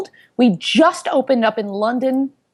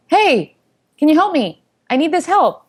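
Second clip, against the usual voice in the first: higher, nagging plea repeated; pestering; 5 semitones higher than usual. Retold or imitated. Mom founder nagging support staff, mock pestering. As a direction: badger the support team over and over. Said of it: "most annoying, you know, user".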